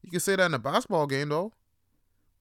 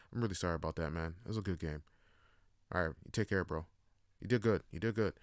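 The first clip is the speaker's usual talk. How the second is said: softer, quieter good-sport apology; mock sincere apology; 4 semitones lower, 4 dB quieter, faster than usual. Player apologizing to the opponent after the game, softly sincere. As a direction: make peace after trash talk, gently.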